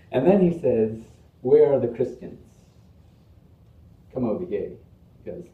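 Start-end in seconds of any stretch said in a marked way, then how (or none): 1.4-4.7 loud mock-British call, easing off; British comic host calling guests over; lightly British roll-call; imitated British accent. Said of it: "he has his British accent".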